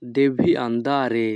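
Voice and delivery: each Italian word spoken slowly and clearly; teacher modelling Italian for learners, very slow; slow demo. Shown as a demonstration. Bengali teacher models Italian phrase for students, slow and careful. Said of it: "Italian phrase demo".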